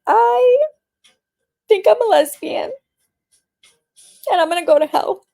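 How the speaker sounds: put-on high panicked teen voice; panicked confession. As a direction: wail it like a scared teenager sure she's damned.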